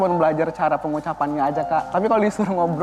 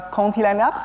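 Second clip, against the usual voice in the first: French accent; 4 semitones higher than usual. Shown as a demonstration. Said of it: "kalau bahasa Perancisnya?".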